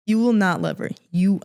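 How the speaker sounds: firm, emphatic imitation of a threat; retold menacing threat. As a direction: press it like someone in her face. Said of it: "he was, like, in my face".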